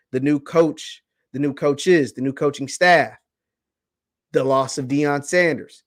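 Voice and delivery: serious low warning; emphatic repeat. Real, not acted. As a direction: drive it home point by point. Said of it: "Let me repeat this".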